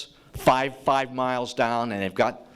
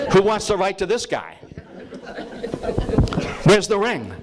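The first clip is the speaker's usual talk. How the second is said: mocking scoff; 7 semitones higher than usual. Mocking letter writers to Hoover.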